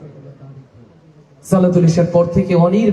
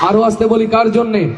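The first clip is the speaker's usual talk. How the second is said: shouted call. Shown as a demonstration.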